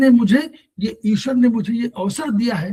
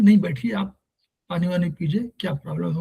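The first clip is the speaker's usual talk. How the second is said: kind welcome; 3 semitones lower than usual. Retold or imitated. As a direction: soothe the visitor and invite him in. Kindly host welcomes a visitor.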